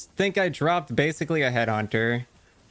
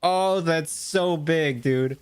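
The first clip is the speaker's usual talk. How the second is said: awed excitement; 4 semitones higher, much slower than usual. Real, not acted. Rare drop excitement.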